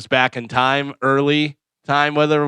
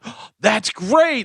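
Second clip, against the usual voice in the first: mock polite; 6 semitones higher, much slower than usual. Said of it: "and they're like".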